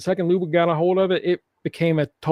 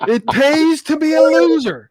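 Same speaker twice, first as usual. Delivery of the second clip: slow, higher line through laughter; laughing; 10 semitones higher, 4 dB louder, slower than usual. Real, not acted. Laughing along with the co-hosts about losers. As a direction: laugh it out slowly.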